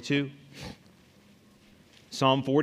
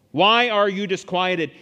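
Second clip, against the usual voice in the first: loud, higher, slowed question; psalmist challenging himself; 4 semitones higher, 7 dB louder, slower than usual. Acted. Psalmist questions his disquieted soul, loud challenge. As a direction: press your own soul for an answer. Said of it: "He talks to himself".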